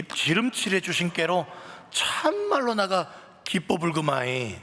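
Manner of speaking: high, loud Jeolla dialect, exclaiming 아따; loud, chuckling Jeolla dialect recitation. Acted. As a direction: perform the psalm like an exuberant Jeolla local. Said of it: "전라도 버전 요것만 하겠습니다".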